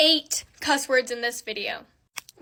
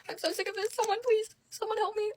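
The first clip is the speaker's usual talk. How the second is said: much higher, softer whiny plea; mock despair; 9 semitones higher, 6 dB quieter, faster than usual. Vlogger whining at her cussing in mock despair. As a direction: beg for help in a hammed-up whine. Despair over makeup pumps.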